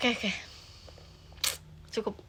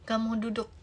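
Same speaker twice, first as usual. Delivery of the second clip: ordinary talk, nothing marked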